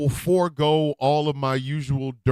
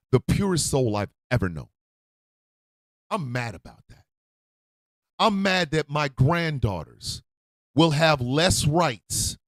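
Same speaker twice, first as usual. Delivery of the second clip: grieving anger. Real, not acted. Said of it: "I am mad".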